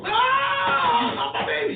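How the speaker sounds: high squeal of a fretting mother; lightly mocking mom voice. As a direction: mimic the mother, squeaky and overprotective. Father mimics mother's protest.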